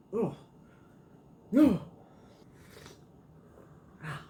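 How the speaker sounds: sipping hot tea between words; slurping hot tea. Real, not acted. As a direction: slurp and wince at the heat. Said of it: "Sorry for the slurping".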